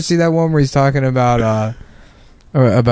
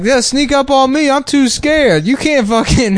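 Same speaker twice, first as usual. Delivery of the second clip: mock scared; 12 semitones higher, slower than usual. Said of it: "He's like".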